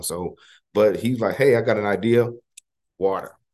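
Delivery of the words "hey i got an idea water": plain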